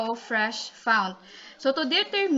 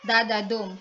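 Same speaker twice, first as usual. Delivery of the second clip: "da da dum" with the stress landing on the final "dum"; two light beats "da da", then a stressed "dum"; anapest rhythm; 3 dB louder than usual. Shown as a demonstration. Teacher showing the anapest foot, "da da dum" stressed on the last. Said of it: "two unstressed and a stressed syllable".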